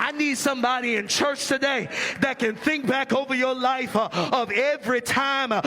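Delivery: rhythmic preaching with audible gasps between phrases; fervent preaching. Real, not acted. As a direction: drive the refrain home to the congregation. Preacher builds rousing refrain to congregation.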